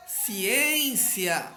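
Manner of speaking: ci-ÊÊÊN-cia, ÊN esticado; penúltima sílaba forte. Shown as a demonstration. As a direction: chame Ciência demorando no ÊN. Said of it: "a penúltima sílaba é a mais forte". (Ciência com ÊN demorado)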